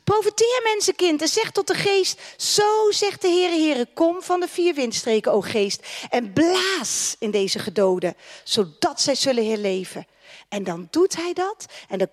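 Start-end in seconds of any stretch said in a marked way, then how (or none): 0.0-10.1 full-force preaching. Acted. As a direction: proclaim life over the crowd. Proclaims the prophet's command.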